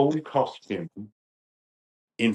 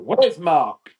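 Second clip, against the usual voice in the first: louder, higher demand; imitated calling out; 7 semitones higher, 7 dB louder than usual. Convention guest walks in looking for the organiser, imitated loud call. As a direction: call out for someone on walking in. Colin calling on entering, retold.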